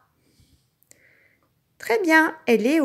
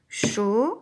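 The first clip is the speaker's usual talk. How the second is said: syllable by syllable. Shown as a demonstration. Teacher claps "Chocolat" together with the child, syllable by syllable.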